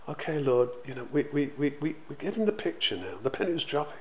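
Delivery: sheepish disciples telling the Lord they finally get it. Retold or imitated. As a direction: own up awkwardly. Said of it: "they're sort of still a little bit sheepish".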